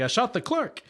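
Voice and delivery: pitched high in disbelief, questioning; incredulous repeat. Retold or imitated. Retelling the movie's confusion, repeating it high in disbelief. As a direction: say it back as if it can't be true. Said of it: "He's like".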